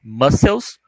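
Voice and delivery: "Mussels" said as /ˈmʌsəlz/, clearly; English mussels. Shown as a demonstration. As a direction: say "Mussels" with care, not like muscle. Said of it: "Essa pronúncia é importante". ("Mussels" com pronúncia cuidadosa)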